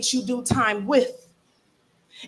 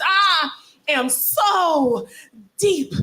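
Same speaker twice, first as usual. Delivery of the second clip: high mock revelation; 5 semitones higher, much slower than usual. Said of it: "in this tone of voice".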